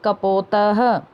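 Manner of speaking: कपोतः with the visarga heard as "ha"; model pronunciation. Shown as a demonstration. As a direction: end कपोतः on a clear "ha". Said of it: "उनको भी उच्चारण करना है".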